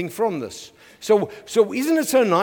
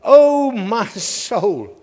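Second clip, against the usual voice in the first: slow, drawn-out cry of the soul; slow, mournful oh my soul; psalmist's lament; 4 dB louder, much slower than usual. Acted. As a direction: stretch it out like a weary sigh to yourself. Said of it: "He says".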